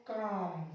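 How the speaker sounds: long "aa" straight into M in काम; silent L. Shown as a demonstration. Teacher showing students silent L before M, काम said "kaam" without L. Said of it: "इसको पढ़ेंगे हम लोग".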